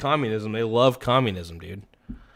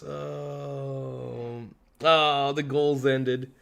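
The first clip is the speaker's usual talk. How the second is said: ordinary delivery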